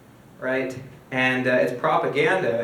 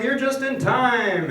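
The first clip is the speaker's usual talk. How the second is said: high, drawn-out friendly welcome; effusive coworker, stretching the words; all warm; 9 semitones higher, slower than usual. Acted. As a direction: welcome him slowly in a lifted voice. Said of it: "Now he's all warm".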